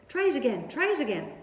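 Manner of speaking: high, loud honking encouragement; goose cheering. A narrator's reading. Goose cheering Wilbur to dodge again. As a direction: egg him on like a goose. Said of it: "cried the goose".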